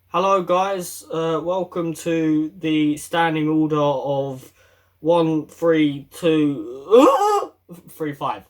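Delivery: droning monotone read off paper, slow. Shown as a demonstration. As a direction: read it flat like a bored list. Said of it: "Don't talk with just one tone".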